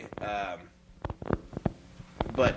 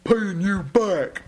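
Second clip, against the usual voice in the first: sneering reveal; 7 semitones higher, 5 dB louder, much slower than usual. Retold or imitated.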